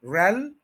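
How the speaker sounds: रेल said alone with weight; रेल isolated and stressed; stressed syllable. Shown as a demonstration. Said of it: "उसके बाद श्वा sound है".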